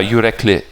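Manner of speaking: "Yürekli" with a short final I. Shown as a demonstration. Trying the corrected name for a listener, short I in "Yürekli". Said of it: "the I is short".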